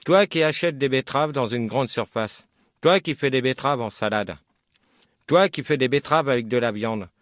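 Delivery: poème récité. Shown as a demonstration. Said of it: "Le poème que je vais vous lire".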